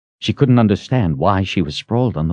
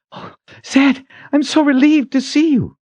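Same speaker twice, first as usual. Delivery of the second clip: high, urgent relief; relieved young heroine; 3 dB louder than usual. A narrator's reading. Kalen greeting Zed after gulping air, high and relieved. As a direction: gulp air, then let relief pour out high.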